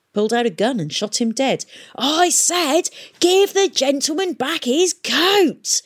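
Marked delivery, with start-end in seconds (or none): 2.0-5.8 high, loud, drawn-out roar; shouting. A narrator's reading. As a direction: shout the order word by word. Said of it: "he shouted at the startled-looking corpse".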